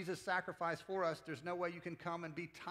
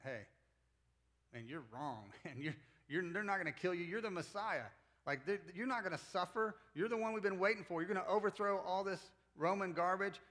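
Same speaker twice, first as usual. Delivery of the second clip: rebuking protest; 3 semitones higher than usual. Acted. Peter rebuking Jesus for predicting his death, building indignation. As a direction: scold him like a friend who knows better. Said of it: "He rebukes".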